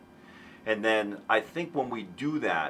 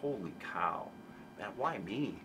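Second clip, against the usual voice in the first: softer, awed and thankful; full of gratitude; 9 dB quieter than usual. Retold or imitated. Guest voices the grateful why me, soft awe. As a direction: marvel quietly at the blessing. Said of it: "that's full of gratitude".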